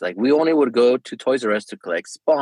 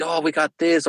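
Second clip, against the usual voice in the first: mildly hyped up; 6 semitones higher than usual. Retold or imitated. Dad sharing a card find with his son, mildly hyped up. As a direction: share a find with mild hype. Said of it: "he gets all hyped up".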